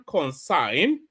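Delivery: concern said as Consign, rhyming with sign; mispronunciation imitated. Commentator imitating protester's pronunciation of concern. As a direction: imitate the accent saying Consign. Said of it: "pronounces concern".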